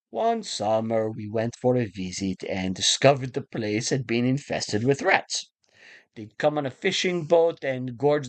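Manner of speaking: a hint of a menacing villain savouring his rat story; shitty Javier Bardem. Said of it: "I'm gonna do my shitty Javier Bardem for you".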